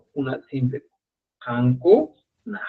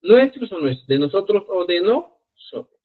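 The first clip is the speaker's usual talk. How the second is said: each option stressed, rising to a question; questioning contrast between the forms; 5 semitones higher than usual. Shown as a demonstration. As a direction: lay the two choices side by side.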